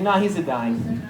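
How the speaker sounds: unhurried mock Italian accent, slow; imitated offhand Italian-accented grandmother; lackadaisical Italian grandma. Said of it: "very lackadaisical about death".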